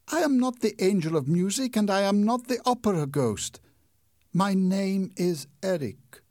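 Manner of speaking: the masked stranger forbids her to look; menacing masked man. Acted. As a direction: warn her off like a hidden ghost. Eric reveals himself.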